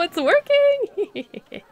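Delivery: high, drawn-out villain gloat; evil mastermind. Pretend. Gloating over the vending machine scheme, villain voice. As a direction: savor it like a cartoon villain.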